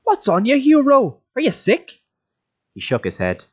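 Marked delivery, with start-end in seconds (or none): 0.0-2.0 high, louder worried questions; alarmed concern. Acted. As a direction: rush out the fear for a friend. Donal alarmed at Hugh.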